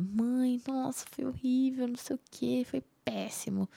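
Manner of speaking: whispered, retold despair to her mother; to her mother, a lightly retold desperate whisper. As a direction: breathe it out like she's falling apart.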